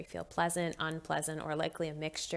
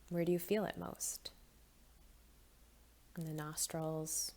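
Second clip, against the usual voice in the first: calm, gently hushed meditation guide; guided meditation; 4 dB quieter than usual. Acted. Volunteer guiding listeners through body and breath, calm meditation voice. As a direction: guide them gently, leaving long pauses between phrases.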